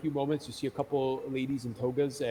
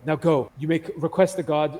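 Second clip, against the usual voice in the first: commanding dismissal; 3 semitones higher, 5 dB louder than usual. Acted. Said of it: "they go".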